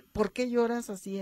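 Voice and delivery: sharp, accusing question; reproachful demand. Shown as a demonstration. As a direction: demand it like a complaint. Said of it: "como un reclamo".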